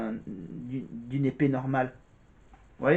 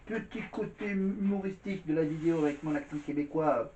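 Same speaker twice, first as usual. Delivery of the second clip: put-on Québécois accent. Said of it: "on revient un peu avec l'accent québécois".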